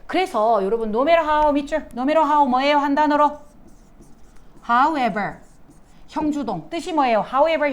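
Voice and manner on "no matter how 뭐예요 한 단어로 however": usual speaking voice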